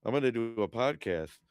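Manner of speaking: acting out his own pre-show nerves; nervous excited self-quote. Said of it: "I was like".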